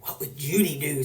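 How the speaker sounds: hushed, voiceless whisper; whispered slogan. Retold or imitated. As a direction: whisper it like a secret joke. Kids' whispered joke slogan.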